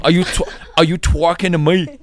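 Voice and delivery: exaggerated New York W vowels; hammed-up New York challenge; New York accent. Host playing with caller's trick, New York accent. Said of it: "trying to do New York accents".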